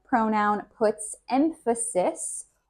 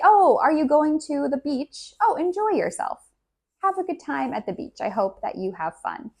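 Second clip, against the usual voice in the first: bright, much higher cheerful send-off; friendly well-wisher; 7 semitones higher, faster than usual. Shown as a demonstration. Teacher plays a friend wishing a good beach day, cheerful. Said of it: "If I say".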